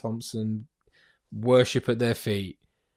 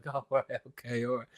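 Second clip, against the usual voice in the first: meek reply; 8 dB quieter than usual. Retold or imitated. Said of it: "and he's like".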